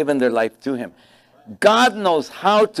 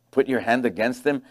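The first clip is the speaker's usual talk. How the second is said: softer and lower, scornful questioning repeat; mocking disbelief; 3 semitones lower, 5 dB quieter than usual. Real, not acted. Pastor scoffing at the devil's request, incredulous. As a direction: echo it back as if it's absurd. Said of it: "Dumb devil".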